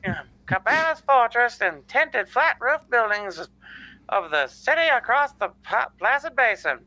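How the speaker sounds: put-on old-time radio narrator voice; vintage newsreel read; 1940s radio announcer. Narrates story aloud.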